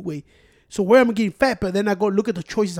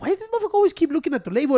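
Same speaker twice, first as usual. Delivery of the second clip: retold exasperation; 8 semitones higher, much faster than usual. Retelling his irritated thought.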